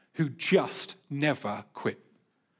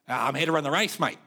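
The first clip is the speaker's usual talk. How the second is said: lightly put-on Australian accent. Older runner answering race official, mild Australian accent. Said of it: "That's my Australian accent".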